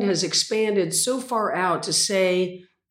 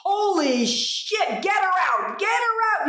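imitated alarmed cry; 12 semitones higher than usual. Swimmer imitating her helper ordering the rescue, alarmed cries. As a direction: act out a panicked rescuer calling out.

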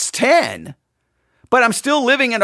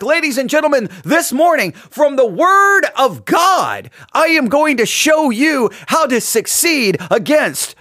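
showman preacher; 4 semitones higher than usual. Retold or imitated. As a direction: bellow it like holding the Bible overhead. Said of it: "He lifts it high above his head, and he's like".

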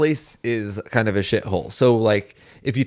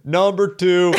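soldier sound-off; 6 semitones higher, slower than usual. Acted. Recruit sounding off.

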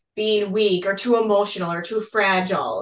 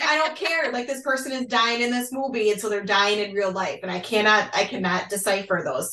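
mock protest. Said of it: "And I'm like".

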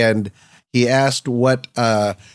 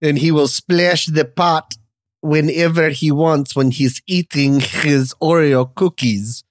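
slow, heavy mock Russian drawl; lightly put-on Russian gangster; questionable Russian accent; slower than usual. Shown as a demonstration. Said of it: "It's supposed to be Russian".

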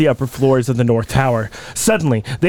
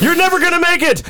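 dramatic doomsayer; 11 semitones higher than usual. Acted. Acting out Pocahontas summary.

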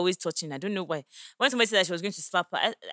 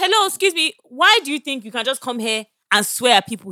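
raised, higher-pitched retold challenge; indignant confrontation; 5 semitones higher, 5 dB louder than usual. Woman confronting men who swore at her table, indignant. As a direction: re-enact telling someone off, loudly.

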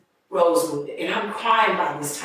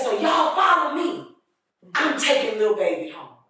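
put-on drunk voice; 4 semitones higher than usual. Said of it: "drunk, slurred voice".

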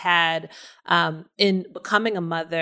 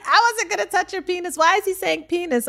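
imitating grandma; 11 semitones higher than usual. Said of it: "she's like".

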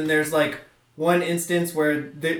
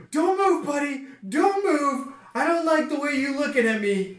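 threatening shout; 10 semitones higher than usual. Acted. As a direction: shout it with the gun drawn. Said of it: "He's like".

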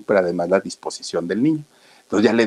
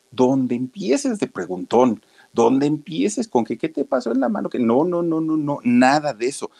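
a mother's warning, pitched noticeably higher; a mother hissing caution at her boy, pitched up; mother warning her son; 6 semitones higher than usual. Retold or imitated.

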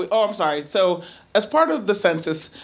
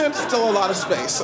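the line again through a laugh; laughing repeat. Retold or imitated. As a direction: giggle while repeating it.

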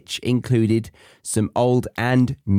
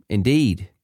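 usual speaking voice

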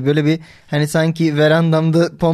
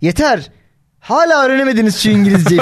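higher-pitched telling-off breaking into laughter; mock scolding; 5 semitones higher, 3 dB louder than usual. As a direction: act fed up, half laughing. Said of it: "biri birine çıkıştığında". (gülerek çıkışma taklidi)

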